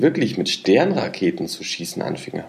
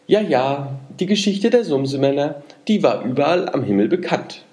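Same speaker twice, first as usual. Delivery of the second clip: benevolent; 6 semitones higher than usual. A narrator's reading. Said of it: "nickte wohlwollend mit dem Kopfe".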